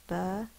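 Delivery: "Ba-na-na" split into three separate beats; syllable by syllable. Shown as a demonstration. Teacher showing the syllables, "Ba-na-na" in three parts. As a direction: pause between each syllable of "Ba-na-na". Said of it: "This is the stressed syllable".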